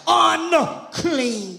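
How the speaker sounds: drawn-out, two-beat preacher's cry; retold holler in preaching voice. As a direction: mildly imitate a leper's warning call, stretching it. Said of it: "you have to holler out".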